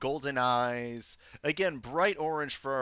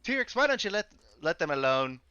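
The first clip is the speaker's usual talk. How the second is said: attempted Cockney accent. Game master as a dockhand telling T-Rex off, attempted Cockney. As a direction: have a tentative go at Cockney. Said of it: "Cockney accent".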